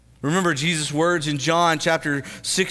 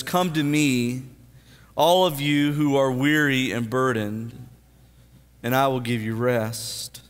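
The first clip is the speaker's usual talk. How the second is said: scripture reading; 4 semitones lower than usual. Acted. Reads scripture slowly.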